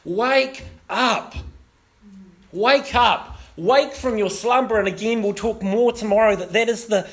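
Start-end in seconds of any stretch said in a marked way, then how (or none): 0.0-4.8 urgent call. Acted. Voicing God's wake-up call.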